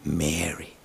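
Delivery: a soft, tender calling of a name; hushed loving call of a name. Pretend. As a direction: say her name softly, with love, like a voice she knows. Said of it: "who says her name in this melody".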